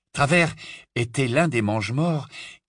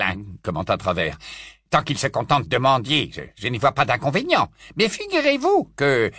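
Travers voice; 5 semitones higher, 4 dB louder than usual. Acted.

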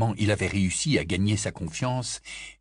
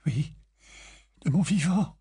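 stiffly; 6 semitones higher than usual. A narrator's reading. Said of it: "dit-elle avec raideur".

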